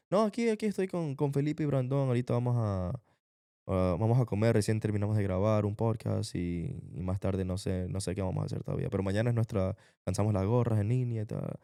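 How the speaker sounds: casual Ecuadorian Spanish, as on a phone call; Ecuadorian accent. Shown as a demonstration. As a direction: chat to mom in your own Ecuadorian accent. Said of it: "that's how we talk, like that".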